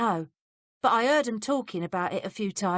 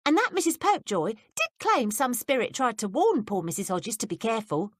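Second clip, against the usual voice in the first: put-on higher, curious young maid; higher maid's voice, prying; 6 semitones higher, 3 dB louder than usual. A narrator's reading. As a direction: play the nosy young maid, pitched up. Betsy voiced by reader.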